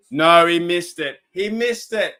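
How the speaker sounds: slow, loud groan of disbelief; excited. Real, not acted. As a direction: react to the missed kick. Reacting to missed field goal.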